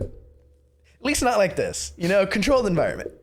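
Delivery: high, mock-earnest nurse voice; Nurse Joy. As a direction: plead a lame excuse. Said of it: "She's like".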